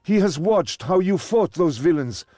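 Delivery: loud, high, outraged rebuke; indignant scolding. Acted. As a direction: scold them for the disgrace. Servant scolds the fighters.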